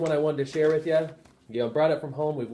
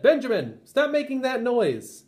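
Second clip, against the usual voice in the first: higher, louder and slow scolding; slow, raised teacher reprimand; stern teacher; 11 semitones higher, 4 dB louder, slower than usual. Acted. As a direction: tell the boy off, word by word. Teacher scolds Ben in class.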